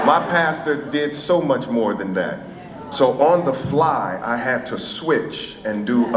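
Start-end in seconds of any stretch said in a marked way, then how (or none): 0.1-2.4 higher, lightly imitated Alabama accent; Rosa Parks. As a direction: lift the pitch for a mock-weary Alabama elder. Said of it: "in her Alabama accent".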